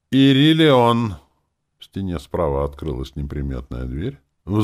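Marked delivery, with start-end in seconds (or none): 0.1-1.2 a loud, high, slow summons; loud call. A narrator's reading. Elder summons his daughter, loud slow call. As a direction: call her name across the hall. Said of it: "громко проговорил".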